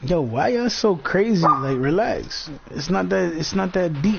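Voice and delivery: high-pitched, urging them to calm down; excited. Real, not acted. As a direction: up high, telling them to relax. Calming down excited dogs.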